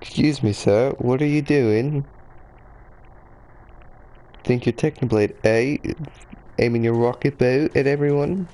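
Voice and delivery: a put-on English accent, questioning a player. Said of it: "say that phrase in an English accent".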